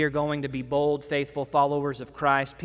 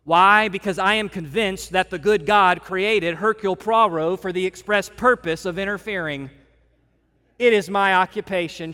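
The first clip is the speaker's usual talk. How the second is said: lightly voiced detective, louder declaration; a hint of a proud Poirot; 3 semitones higher, 6 dB louder than usual. Poirot declaring to Hastings, lightly voiced and proud. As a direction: proclaim it with mock grandeur. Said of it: "Poirot makes this great statement".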